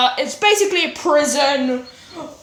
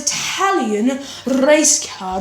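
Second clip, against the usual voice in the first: put-on Italian accent; slower than usual. Vlogger introducing an Italian racer, mock Italian accent. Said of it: "that's my Italian accent".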